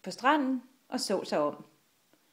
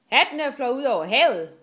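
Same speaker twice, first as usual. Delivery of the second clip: fast, loud, higher cry; shout; 4 semitones higher, 8 dB louder, faster than usual. A narrator's reading. Enøje loses hat at sea, shouting. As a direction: yell the news over the storm. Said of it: "råbte Enøje".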